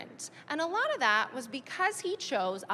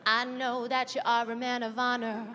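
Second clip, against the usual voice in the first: put-on vulnerable girl; slower than usual. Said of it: "she's like".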